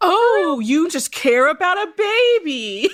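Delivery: put-on heavy sarcasm. Recapping a show, quoting Wes's reply to Holtz, imitating Wes's sarcastic voice. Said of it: "he gets like real sarcastic voice about it".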